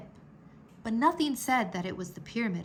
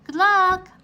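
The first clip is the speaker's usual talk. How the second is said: higher, louder call after them; 10 semitones higher, 11 dB louder than usual. A narrator's reading. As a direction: call it out across the yard. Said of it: "Anna called out".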